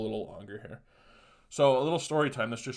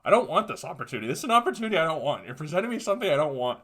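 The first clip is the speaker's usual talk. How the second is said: retold refusal; 5 semitones higher, 4 dB louder, faster than usual. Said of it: "And I go".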